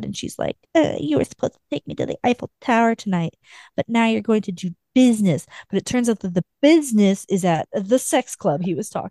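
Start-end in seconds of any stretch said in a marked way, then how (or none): 0.8-5.4 quick, high, whiny protest; pouty complaint. Retold or imitated. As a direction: sulk it out like a spoiled girlfriend. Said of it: "she's all pouty and mad".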